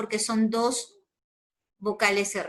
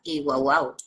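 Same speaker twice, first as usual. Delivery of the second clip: lower, light mock bark of "guau, guau"; teacher mimicking how children say "guau, guau"; imitating a dog; 6 semitones lower than usual. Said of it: "como dicen muchos niños".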